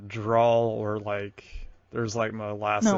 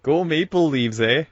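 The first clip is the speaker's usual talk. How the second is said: put-on lightly teasing Canadian accent, louder; mock Canadian accent; 3 semitones higher, 6 dB louder than usual. Friend teasing about sounding Canadian, mock Canadian accent. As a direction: toss out a Canadian "eh". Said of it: "do the Canadian accent".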